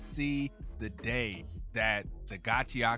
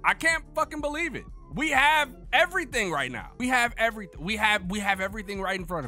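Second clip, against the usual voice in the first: overwhelmed excitement; 7 semitones higher, 4 dB louder, faster than usual. Real, not acted.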